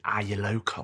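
hushed, whispered imitation; whispered question. Woman asking visitors if they live there, mock whisper. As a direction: whisper it like a nosy aside.

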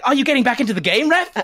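Khadijah's corrected voice. Acted. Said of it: "doing Khadijah's voice wrong".

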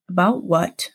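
sober, contained retold question; really serious. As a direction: turn grave, without pushing it. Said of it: "A really serious tone".

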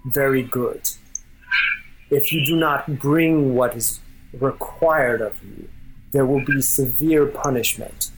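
lightly voiced king, measured warning; deliberate royal warning, understated; intent, kingly. King warns his generals of punishment, mildly stern and deliberate. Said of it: "he speaks with intent".

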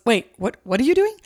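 sudden high shocked what are you doing; imitated busybody's shocked pitch jump; alarmed question. Goody two-shoe guy objects.

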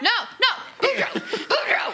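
high, loud, urgent call; calling him back. Acted. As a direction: call after someone running off. Calls after fleeing character.

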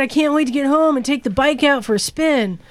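put-on half-joking California surfer accent on the listener's words. Host reading a listener's email, slipping into a mild California accent. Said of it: "Suddenly he's got a California accent".

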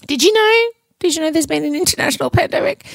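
high, fast mock surprise; sarcastic fake shock. Mock news about the pandemic.

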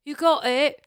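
hammed-up Australian; Australian accent. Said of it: "Now do an Australian".

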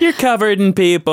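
high-pitched, disbelieving objection; incredulous protest. Real, not acted. Friend disputes her being alone, protesting in high-pitched disbelief. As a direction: push back in comic disbelief.

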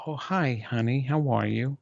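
low, measured greeting to honey; mock home greeting. Shown as a demonstration. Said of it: "talk like this at home".

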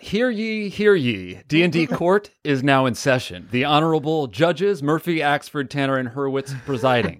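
formal court bailiff announcing; grand rich voice. Acted. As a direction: proclaim it like a bailiff.

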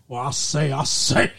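cartoon Southern accent. Shown as a demonstration. Offering co-host another cartoon accent, mock Southern. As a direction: put on a Looney Tunes Southern voice. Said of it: "You want a Southern accent?".

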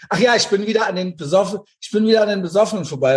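rushed, wired chatter; too much caffeine. Real, not acted. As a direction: rattle it off fast and hyped. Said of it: "Ich muss total überdreht nur am Labern bin".

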